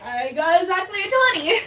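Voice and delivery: real thrilled surprise, pitch lifted; excited. Real, not acted. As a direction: blurt out the lucky roll. Player rolls a natural twenty.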